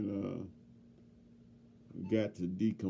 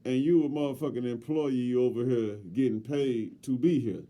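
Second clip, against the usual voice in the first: angry rant; 5 dB louder than usual. Retold or imitated. Telling off the employee.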